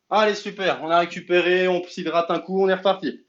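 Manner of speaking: loud, upbeat class restart; rally everyone back in; fitness coach. Acted. Rallies the class after a break.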